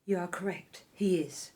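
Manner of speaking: breathy conspiratorial whisper; secretive whisper to an ally. Acted. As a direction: whisper it so no one hears. Conspirator confides quietly.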